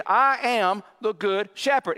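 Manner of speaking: "I am" slow and weighty in "I am the good shepherd"; stress on I AM. Real, not acted. Preacher stressing Jesus' claim to the congregation, emphatic "I am". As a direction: lean firmly on "I am", slowing down. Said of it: "But the emphasis here is".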